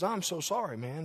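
gracious apology. Retold or imitated. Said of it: "Very kind, gracious".

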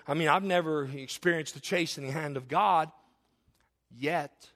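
"yet" set apart after a long pause; pause, then land "yet" as a separate word; stress on yet. Real, not acted. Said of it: "I emphasize the word yet".

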